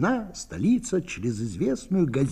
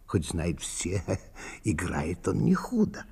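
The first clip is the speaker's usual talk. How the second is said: whisper; 5 semitones lower, 6 dB quieter than usual. Acted. Whispered gossip aside.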